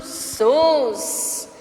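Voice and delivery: SUS as one long syllable; stressed syllable alone. Shown as a demonstration. Teacher answering for pupils, "Sus" drawn out. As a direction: stretch "Sus" out. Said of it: "como se ela fosse mais forte".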